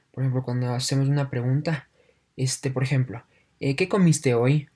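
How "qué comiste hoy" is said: comiste hoy lifted into a questioning rise; rising question tune. Shown as a demonstration. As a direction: ask "¿qué comiste hoy?" with the pitch climbing to the end. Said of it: "Si ven cómo, cómo sube el tono". (entonación de pregunta ascendente)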